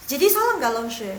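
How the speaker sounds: a hint of a pupil's voice; mock student question. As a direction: ask like a worried student. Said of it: "imagined student asking".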